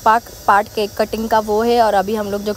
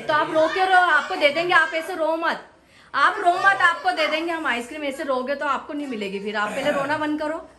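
higher pitched coaxing over ice cream; 4 semitones higher than usual. Real, not acted. Coaxing crying child, higher voice.

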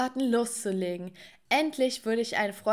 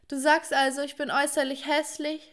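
mock yell it back at dad, offended; retold shout; 5 semitones higher than usual. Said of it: "schrie ich zurück".

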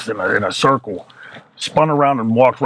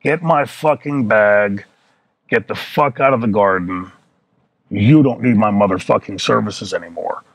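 slow, spaced-out phrases, each delivered separately; relayed verbatim. Retold or imitated. Wrestler repeating the message to his boss, measured verbatim recital. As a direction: parrot the message back in deliberate chunks. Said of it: "gave it the same way that Arnie gave it".

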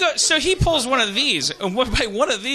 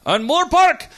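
higher, louder mock disbelief; incredulous driver; 7 semitones higher, 5 dB louder, slower than usual. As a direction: imitate a driver querying it loudly. Acted exasperated driver on phone.

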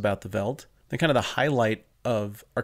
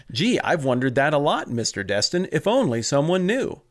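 hammed-up kid sidekick, higher and louder; mock gee-whiz wonder, pitched up; scripted children's-show kid; 5 semitones higher, 4 dB louder than usual. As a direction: parody an eager kid on a science show. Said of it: "like a scripted children's science show".

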